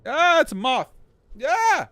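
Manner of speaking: high, loud panicked shriek; real squealing alarm; freaked out. Real, not acted. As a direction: scream as a moth comes at you. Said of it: "Very freaked out and uncomfortable".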